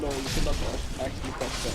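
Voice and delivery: hammed-up Russian refusal, badly faked accent; terrible Russian accent. Enemy refuses the question in bad Russian accent. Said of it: "Uh, in a Russian accent".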